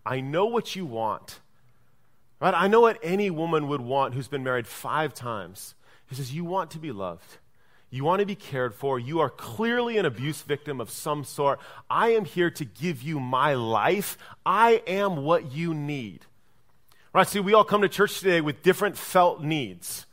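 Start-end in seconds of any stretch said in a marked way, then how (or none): 0.0-1.4 gentle and loving. Retold or imitated. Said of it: "in gentleness and love". 6.3-16.2 gentle and loving. Retold or imitated. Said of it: "in gentleness and love".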